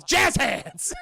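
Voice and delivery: loud drawn-out mock fanfare; showbiz flourish. Joking about the captain's death pose, showy shout. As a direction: sing out the punchline, stretched. Jokes about alien's outstretched hands.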